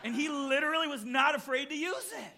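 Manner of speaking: preacher laughing through a story punchline. Real, not acted. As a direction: deliver the joke laughing.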